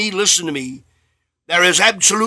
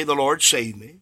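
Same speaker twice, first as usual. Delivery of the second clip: softer, low, unhurried answer; calm testimony; 5 semitones lower, 7 dB quieter than usual. Retold or imitated. New convert answering the minister, calmly. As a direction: answer calmly and quietly, without display. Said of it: "they'll very calmly say".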